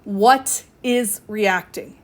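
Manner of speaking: slow, deliberate question to yourself; slow self-question. Shown as a demonstration. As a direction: ask it slowly, word by word. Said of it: "The first thing I want you to do is ask yourself".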